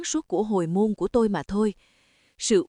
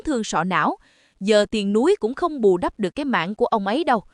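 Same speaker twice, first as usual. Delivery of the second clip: mother-in-law shrilly blames the daughter-in-law; shrill scolding. Acted. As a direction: berate her with a piercing voice. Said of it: "cái giọng the thé lại vang lên".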